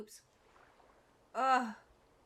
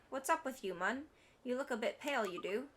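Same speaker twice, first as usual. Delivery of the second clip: Welsh fairy Drippy; 3 semitones higher than usual. Acted.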